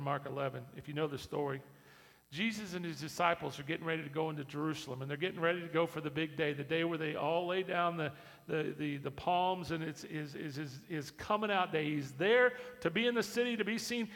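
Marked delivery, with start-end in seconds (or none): 2.3-14.1 rising to loud, high full-force preaching; preaching build. Acted. Pastor building the entry scene, preaching at full force. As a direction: swell toward the arrival.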